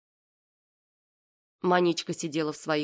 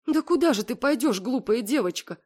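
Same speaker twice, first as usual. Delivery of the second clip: higher, tearful pleading mother; a hint of tears in a higher mother's voice; through tears; 6 semitones higher than usual. A narrator's reading. Mother tearfully asks her daughter where she'll go, higher. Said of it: "сказала мама сквозь слёзы".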